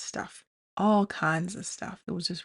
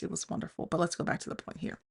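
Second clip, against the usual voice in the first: whisper; 5 dB quieter, faster than usual. Real, not acted. Quiet aside.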